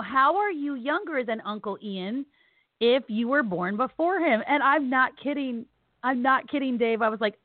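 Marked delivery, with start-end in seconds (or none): 0.0-4.4 put-on child's slow question. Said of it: "and he wants to know".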